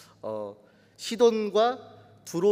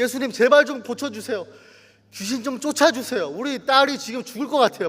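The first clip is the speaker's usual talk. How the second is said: raised, higher pleading voice; mock desperate yelling; 4 semitones higher, 4 dB louder than usual. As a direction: beg urgently for a dying daughter. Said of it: "막 소리 지르고". (소리치듯 다급하게 애원)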